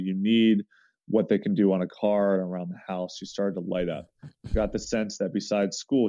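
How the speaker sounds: measured, even read-aloud delivery; story reading. Acted. Man reading out a babysitter's account of a neighbor girl, story reading. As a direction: read a personal story aloud, steady and sincere.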